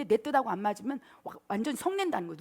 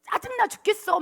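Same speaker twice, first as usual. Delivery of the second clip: acted irritated outburst. Jonah complaining to God about the heat, acted irritation. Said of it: "막 이런 막 분노가 쏟아지다가".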